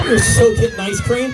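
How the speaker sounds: slow, loud proud shout; excited. Real, not acted. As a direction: cheer it out with delight. Proud dad rewarding daughter.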